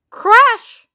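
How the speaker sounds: loud high crash; dramatic crash. A narrator's reading. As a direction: hit the word like a bang. Narrator's sound word.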